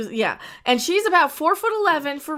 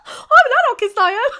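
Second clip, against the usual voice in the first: put-on high, loud rough street thug accent; mock rough street accent; 10 semitones higher, 6 dB louder, much faster than usual. Mocking the actress to her co-host, rough street accent. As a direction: echo the line in a cheap rough street accent. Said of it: "Sorry for the bad accents, but that's how she kinda sounds".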